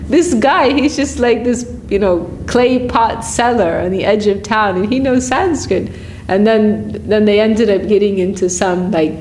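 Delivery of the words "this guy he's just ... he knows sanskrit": imitating scholars stunned by a pot seller; surprised pandits. Pandits marvel at a pot seller who speaks Sanskrit, amazed. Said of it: "they were very surprised".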